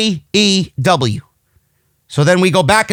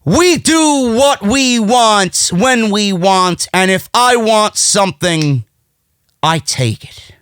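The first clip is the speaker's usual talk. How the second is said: imitated wrestling promo; 2 semitones higher, slower than usual. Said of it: "he starts to speak".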